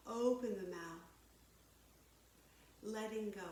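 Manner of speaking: calm, measured yoga-teacher delivery; guided yoga. Real, not acted. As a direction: guide them through breath and stretch, unhurried pauses between cues. Leads breathing and stretching.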